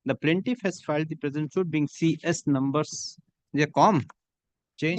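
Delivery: steady, measured dictation of a judgment for the record; dictating a court order. Acted. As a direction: read each phrase out clearly for the stenographer to type.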